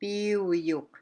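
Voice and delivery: Piuyuk drawn out slowly; careful pronunciation. Shown as a demonstration. Teacher showing learners close-sounding words, careful pronunciation. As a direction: stretch out Piuyuk with care. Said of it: "be really careful when you're pronouncing".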